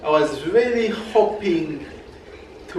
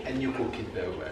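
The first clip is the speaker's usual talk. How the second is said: whispered aside; 5 semitones lower, 14 dB quieter, much faster than usual. Real, not acted. Aside compliment.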